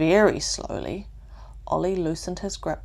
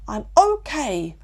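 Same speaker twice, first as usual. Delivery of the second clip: slower and louder, finding courage; louder, gaining confidence; a little louder; 6 semitones higher, 6 dB louder than usual. A narrator's reading. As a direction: say it a bit braver. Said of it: "Ollie said a little louder".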